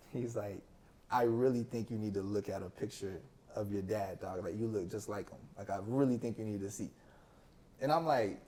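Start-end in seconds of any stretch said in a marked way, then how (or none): 1.1-6.9 lower, understated retelling of an uncle's plea; retold earnest advice, pitched down; earnest urging. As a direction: gently press him, voice dropped low.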